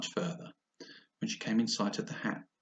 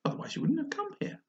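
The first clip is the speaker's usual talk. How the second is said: secretive. Acted. The cat pointing Alice the way, whispered.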